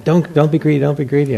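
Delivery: high, loud inner warning; mock stern self-scolding. Monk scolding himself about chocolate, mock stern. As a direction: scold yourself like a nagging conscience.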